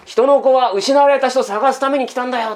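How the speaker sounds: lightly voiced tender Jesus; gentle tone. Jesus telling the lost why he came, gently. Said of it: "怒ってないですよね".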